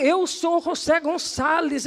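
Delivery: high, slow, imitated proclamation; emphatic self-announcement. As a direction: announce yourself grandly as the man, stretching it out. Homem se revela, encenado. (apresentação enfática, aguda e pausada)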